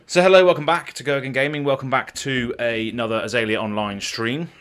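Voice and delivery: breathless after rushing upstairs; out of breath. Real, not acted. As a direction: speak while still catching your breath. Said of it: "I'm a little bit out of breath".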